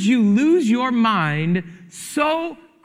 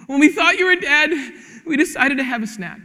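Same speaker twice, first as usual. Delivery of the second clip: put-on little girl voice; 5 semitones higher than usual. Child voiced in story.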